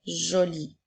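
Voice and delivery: each word spaced out and clearly set apart; slow dictation. Shown as a demonstration. Teacher dictating to a child, slow and distinct. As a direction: dictate slowly to a pupil writing. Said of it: "tu dois écrire le mot joli au masculin".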